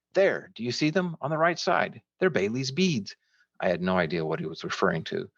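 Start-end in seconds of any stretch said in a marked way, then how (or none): 0.1-3.2 high, excited calling out; shouted. A narrator's reading. Sam pointing out the beads to his friend, shouted. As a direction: point it out eagerly, pitch way up. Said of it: "once again shouted to me".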